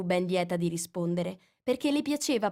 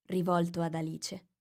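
plain reading voice

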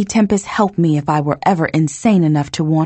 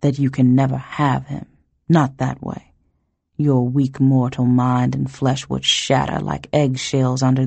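drawled; 3 semitones lower than usual. Acted. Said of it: "he drawled".

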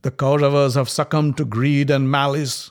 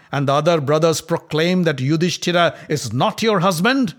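louder, sneering taunt; mocking; 3 semitones higher, 4 dB louder than usual. Duryodhana taunting Draupadi before the court, sneering. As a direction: goad her with contempt. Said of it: "Duryodhana laughed at Draupadi and said".

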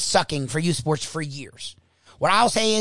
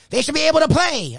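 mock opposing parent; 10 semitones higher, 3 dB louder than usual. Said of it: "He's like".

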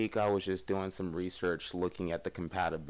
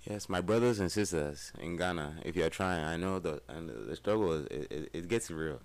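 put-on Ghanaian-style African accent; playful African accent. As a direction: address the crowd in a mock African accent. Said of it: "you can't do a good African accent".

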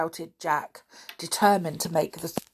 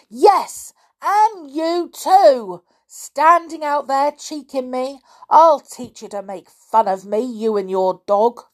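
put-on high, loud old man's rage; in a fury; 8 semitones higher, 9 dB louder than usual. A narrator's reading. Caretaker threatening boys who cheeked him, furious. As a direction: rant loudly at the lot of them. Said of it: "in a fury".

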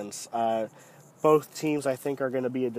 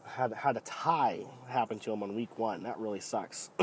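low, deep voice from a cold; deep bass voice; 3 semitones lower, 4 dB quieter than usual. Real, not acted. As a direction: speak deep and thick, sick with a cold. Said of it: "my voice sounds really deep to me".

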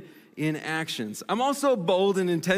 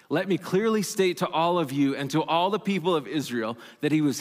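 steady, measured reading of Peter's speech; scripture reading. Acted. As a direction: bold scripture reading, evenly paced. Reads Peter's speech from Acts.

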